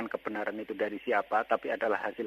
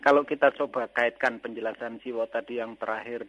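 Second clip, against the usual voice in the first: louder so they can hear; raised voice; 5 dB louder than usual. Real, not acted. Caller repeating his question for the host, raised voice. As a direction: speak up for the phone. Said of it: "bisa lebih keras suaranya".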